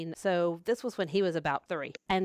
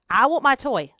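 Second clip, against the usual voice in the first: put-on whiny toddler; 5 semitones higher, 7 dB louder than usual. Retold toddler demanding toy.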